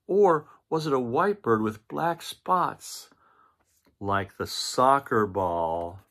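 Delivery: Papa drags out his doubt, piece by piece; puzzled Papa Bear. Acted. Papa Bear quizzing the cubs about the bird, loud and slow.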